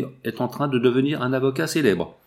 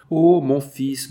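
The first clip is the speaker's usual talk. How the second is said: slow, louder and higher, from a changed voice; overwhelmed cry of joy; 4 semitones higher, 5 dB louder, much slower than usual. A narrator's reading. Jeanne to her son Georges, a slow overwhelmed cry of joy. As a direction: let the joy burst out as she finds her son. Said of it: "c'était trop de joie".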